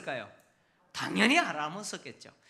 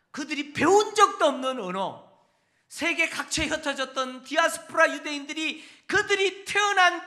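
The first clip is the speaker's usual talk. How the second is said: preaching climax; 6 semitones higher, 6 dB louder than usual. Acted. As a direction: build fervor over the miracle.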